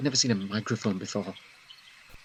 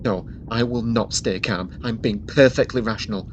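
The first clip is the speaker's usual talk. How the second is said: louder, rising protest that he is calm; indignant, rising anger; 5 dB louder than usual. Acted. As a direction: insist you're rational while losing it. Insists he is calm while upset.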